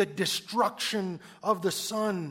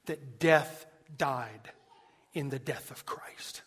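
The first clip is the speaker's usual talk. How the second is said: hushed whisper; 3 semitones lower, slower than usual. Acted. Preacher whispering Owen's line to the congregation, hushed. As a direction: drop to a whisper on the quote. Quoting Owen, drops to whisper.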